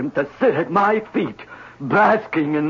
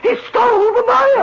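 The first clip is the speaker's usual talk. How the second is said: high, loud outraged wail; outraged cry; 4 dB louder than usual. Acted. Designer repeats outrage, rising.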